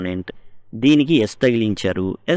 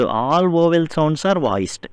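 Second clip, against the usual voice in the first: very slow, word by word; slow dictation; 4 semitones higher, much slower than usual. Shown as a demonstration. Teacher dictating the vowel rule, very slow. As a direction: dictate it slowly to the class.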